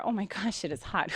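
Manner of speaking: breathless whisper. Real, not acted. Complaining about the heat.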